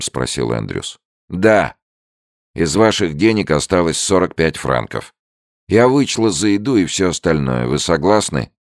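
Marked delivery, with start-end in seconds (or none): 1.3-8.5 put-on higher, louder old woman, matter-of-fact; brisk higher old landlady tone. A narrator's reading. Old woman to Andrews about the money, higher and brisk.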